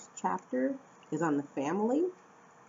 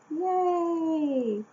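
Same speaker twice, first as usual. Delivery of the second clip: sarcastic yay; 10 semitones higher, 4 dB louder than usual. Real, not acted. Sarcastic cheer about early morning.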